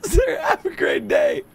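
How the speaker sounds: very high, strained, drawn-out goodbye; squeaky farewell. Pretend. Shopkeeper seeing off a customer, squeaky and cracking up. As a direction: squeal a slow goodbye through giggles.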